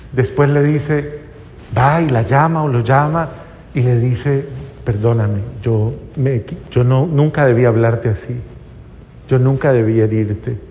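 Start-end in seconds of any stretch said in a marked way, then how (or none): 4.8-10.6 low-pitched, understated remorse; disculpa del padre. Acted. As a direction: act a parent apologising, voice dropped and measured. Padre pide perdón al hijo. (arrepentimiento sereno, en tono grave)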